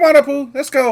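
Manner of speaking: calling out high and loud.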